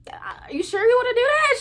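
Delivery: whispered, cautious question. Retold or imitated. Narrator whispering doubts to friend about quitting, hushed. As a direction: hush it like a secret doubt.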